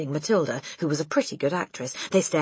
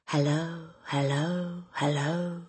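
parrot voice; 5 dB quieter, slower than usual. A narrator's reading. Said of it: "a voice came loud and clear".

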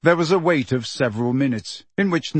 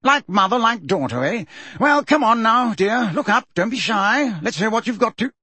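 high, bustling encouragement; jolly the shy girl along; bluff, booming joviality; hearty; 8 semitones higher than usual. A narrator's reading. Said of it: "said Fudge heartily".

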